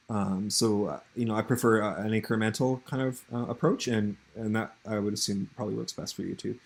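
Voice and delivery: numb mouth after the dentist. Real, not acted. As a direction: speak through a frozen, numb mouth. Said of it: "my mouth is frozen right now".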